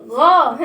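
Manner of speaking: غا said as a clear open gha; teacher sounding out غا for the children; letter sound gha. Shown as a demonstration. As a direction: sound out غا with the mouth open wide. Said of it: "غين فتحة صوتها".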